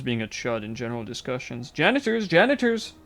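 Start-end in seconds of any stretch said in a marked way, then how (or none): 1.7-2.3 loud call for the janitors. Acted. Calling out for janitors. 2.3-2.9 high, louder shout. Acted. Calling out again, louder.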